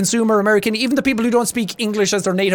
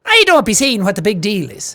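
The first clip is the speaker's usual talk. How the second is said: leaned-in Irish accent; 2 semitones higher than usual. Shown as a demonstration. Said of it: "lean into the Irish accent a lot more".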